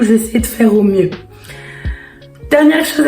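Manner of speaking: losing her voice, rough and strained; real laryngitis, voice half gone; hoarse voice. Real, not acted. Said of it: "j'ai une extinction de voix".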